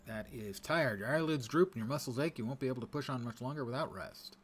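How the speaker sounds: loud, dramatic game narrator voice. Acted. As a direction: announce it like a grave narrator. Reading the game's tired message.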